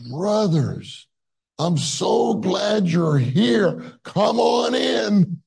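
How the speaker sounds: eager welcome. Retold or imitated. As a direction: throw the door open with a big glad call. Tom cheering up ill Brother Lee.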